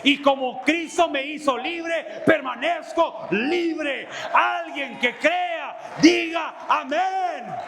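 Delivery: slow, ringing preacher's call; preacher calling for an amen; full-force preaching. Acted. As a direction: drive it home to the congregation.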